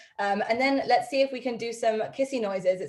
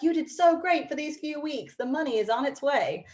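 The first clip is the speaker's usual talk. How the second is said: higher, congratulating tone; mildly gushing congratulations; enthusiastic praise; 5 semitones higher than usual. Acted. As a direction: praise like a paycheck would. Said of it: "it's like".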